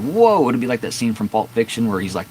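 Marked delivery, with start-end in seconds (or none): 0.0-0.5 high, loud mock gasp of surprise; mock whoa. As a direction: imitate a startled audience, pitched way up. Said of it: "y'all gonna be like".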